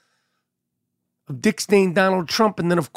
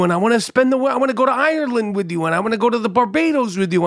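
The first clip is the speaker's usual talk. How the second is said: higher, run-on mock declarations of love; gushing vows; 4 semitones higher than usual. Bride's vows to her husband retold, gushing. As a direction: pile up the promises in a raised voice.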